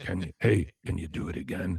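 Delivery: very low, deep character voice. Retelling what Keith asked: Keith voice. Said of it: "In that Keith voice".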